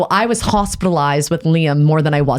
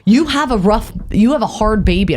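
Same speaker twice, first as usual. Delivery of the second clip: retelling in a light Irish lilt; mild mock Irish accent; 3 semitones higher than usual. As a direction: put on an Irish accent to quote someone. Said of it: "I don't know why I had an Irish accent".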